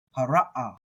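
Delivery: "ha, ra, ah" with a single "ah" at the end; common simpler reading. Shown as a demonstration. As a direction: say "ha, ra, ah" without an extra "uh". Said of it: "a lot of people are just gonna do".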